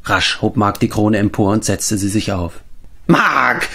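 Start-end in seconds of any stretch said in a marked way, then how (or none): 3.0-3.7 mildly raised cry of triumph; triumphant cry. A narrator's reading. Mark crowning himself, crying out in triumph. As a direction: proclaim your own name. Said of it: "schrie er".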